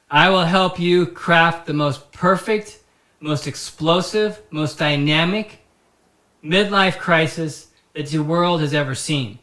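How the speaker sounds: emphatic pretend ad read; mock life-coach sales pitch. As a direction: sell it like a grandiose motivational huckster.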